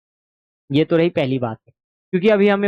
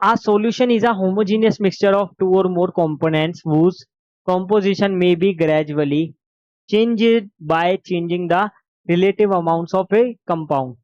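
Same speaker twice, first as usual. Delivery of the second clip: slow, deliberate textbook reading; dictation; much slower than usual. Acted. Teacher dictating notes to the class, slow and deliberate. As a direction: spell out each phrase for notes.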